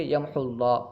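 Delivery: "یمحو اللہ" run together with short u; joined without pause. Shown as a demonstration. Teacher answers own question, "یمحو اللہ" read without stopping. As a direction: skip the waw and link "یمحو اللہ". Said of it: "وقف نہیں کریں گے".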